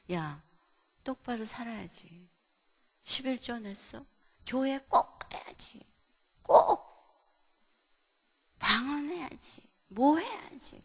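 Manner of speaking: nagging parent's checklist, emphatic on key words; lightly acted stern nagging. Speaker mimics a legalistic parent checking on children, nagging.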